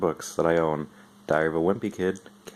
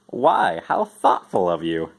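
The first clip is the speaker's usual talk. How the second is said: slow, touched mother voice; slow, pleased mock mom; surprised pleased mom; 2 semitones lower, 3 dB louder, slower than usual. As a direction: savour the compliment.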